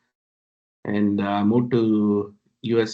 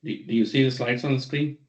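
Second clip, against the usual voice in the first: faint, distant mic voice; barely audible. Real, not acted. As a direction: far away and very faint. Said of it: "The voice is not audible".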